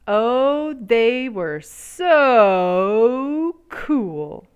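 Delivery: awed gush. A narrator's reading. Narrator gushes over cool beans.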